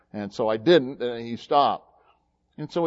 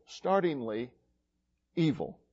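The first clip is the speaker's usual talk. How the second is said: quiet repeat; 6 dB quieter than usual. Shown as a demonstration. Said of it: "They're startlingly real".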